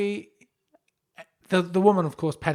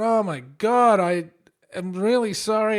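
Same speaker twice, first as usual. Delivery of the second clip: embarrassed apology; 4 semitones higher, 4 dB louder, slower than usual. Retold or imitated. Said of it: "I've gone".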